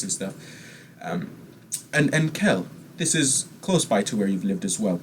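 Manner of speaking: preen and gush over your own home; theatrical rich eccentric; eccentric nobleman. Acted.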